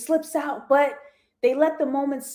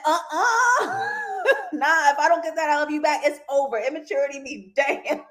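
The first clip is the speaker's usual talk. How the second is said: laughing read; 5 semitones higher than usual. Retold or imitated. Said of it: "Callie said".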